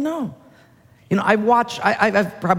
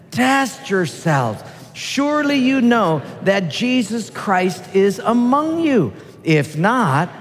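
slow, grand thespian reading; hammy stage actor; 2 semitones higher, slower than usual. Pretend. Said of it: "in your most profound thespian voice".

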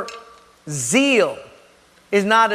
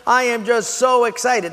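higher-pitched, gushing new believer; acted excitement; 4 semitones higher than usual. New convert thrilled to be loved, excitedly gushing. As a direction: play giddy, hammed-up delight. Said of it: "your excitement goes".

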